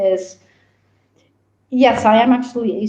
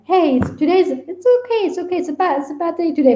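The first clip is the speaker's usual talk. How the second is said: higher, lightly voiced comforting; mock reassurance; 7 semitones higher than usual. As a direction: soothe someone as a little voice in their head. Imagined voices comfort on bad day.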